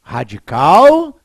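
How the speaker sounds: radical drawn out slowly and loud; slow emphatic term. Shown as a demonstration. Teacher to class, drawing out Radical slowly. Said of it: "Vou explicar o que é isso".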